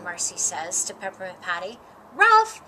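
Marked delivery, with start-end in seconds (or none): 2.1-2.6 high, loud, outraged one-word shout; indignant shout. Acted. Patty answering Marcy's rebuke with an outraged shout. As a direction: fling the word back in disbelief. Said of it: "Peppermint Patty shouts".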